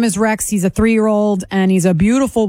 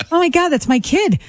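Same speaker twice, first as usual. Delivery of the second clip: shocked recognition; 8 semitones higher than usual. Retold or imitated. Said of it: "And then I go".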